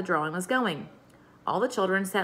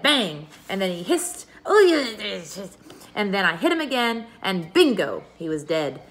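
building, breathless bragging, louder at the fight; excited tall tale; 2 semitones higher, 4 dB louder than usual. Acted. Pippi telling the teacher her snake tale, excited and loud. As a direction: pump up the drama of the snake fight.

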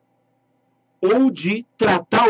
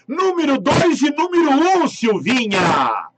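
excited announcement; 8 semitones higher than usual. Real, not acted. Announcing draw winners excitedly.

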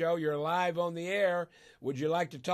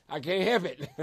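laughing through tears; 2 semitones higher than usual. Real, not acted. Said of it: "if I cry today".

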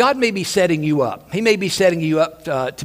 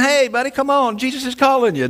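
1 eager encouragement; 8 semitones higher than usual. Acted. Friends now encourage him.

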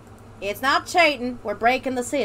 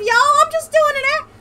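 put-on Southern accent; 14 semitones higher, 8 dB louder than usual. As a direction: ham up a folksy Southern accent. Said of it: "she's gonna do a horrifically offensive accent".

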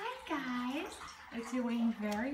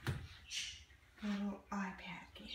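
whisper; 6 dB quieter, slower than usual. Real, not acted. Whisper aside.

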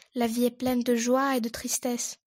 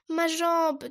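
moaning in pain; 5 semitones higher, 4 dB louder than usual. Acted. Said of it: "dit Castor en gémissant".

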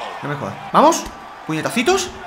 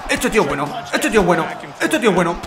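laughing; 4 semitones lower, 4 dB quieter, faster than usual. Real, not acted. Losing to a pro.

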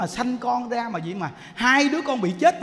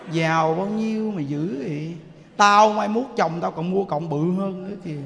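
mock jealous gossip; 3 semitones lower than usual. Jealous neighbor voiced in sermon.

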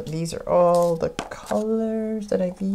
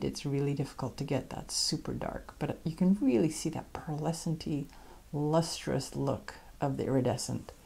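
whispering; 3 semitones lower, 8 dB quieter than usual. Real, not acted. Admiring pastel sheen.

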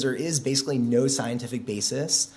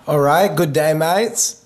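a light, hammed-up Australian accent; 3 semitones higher, 8 dB louder, slower than usual. Australian greeting to the conference audience, mock Aussie accent. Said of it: "give my speech in an Australian accent".

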